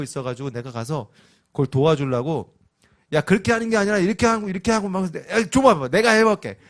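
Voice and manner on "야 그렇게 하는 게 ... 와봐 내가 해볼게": loud, fast, high and pushy; bossy loud dad. Retold or imitated. Dad grabbing the game from his son, loud and bossy. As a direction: barge in and take over the game.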